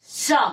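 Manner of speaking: सा as a dental "sa"; dental sibilant demo. Shown as a demonstration. Teacher models third sound for students, सा as dental "sa". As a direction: say सा with tongue behind the teeth. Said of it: "अब आप इसको मतलब बोलिए".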